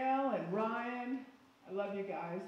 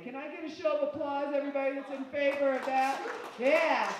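crowd rally; 2 semitones higher, 6 dB louder than usual. Real, not acted. Asking the crowd for applause.

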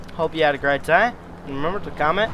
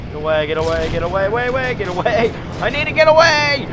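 panicked building cries; 3 semitones higher than usual. Real, not acted. Fleeing in game, panicking.

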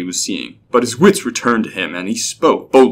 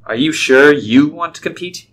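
higher-pitched, doubting question; slightly derisive; 5 semitones higher than usual. A narrator's reading. Clerk doubts the young entrant, slightly derisive. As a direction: question it with a touch of scorn. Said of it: "in a slightly derisive tone".

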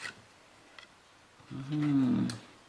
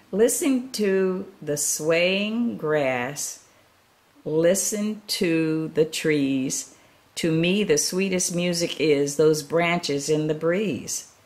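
very slow, lilting, louder reading; dreamy; 4 dB louder, slower than usual. Acted. Gerald dreaming under the moon, slow and dreamy. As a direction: savour each word like a lullaby.

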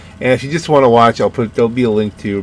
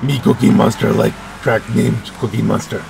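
Cookie Monster voice. Pretend. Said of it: "Not my best Cookie Monster voice".

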